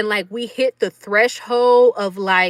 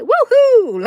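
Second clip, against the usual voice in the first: high, loud party whoop; joyful whoop; 14 semitones higher, 7 dB louder than usual. Retold or imitated. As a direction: cheer like you're in the crowd. Enjoying the show, so happy.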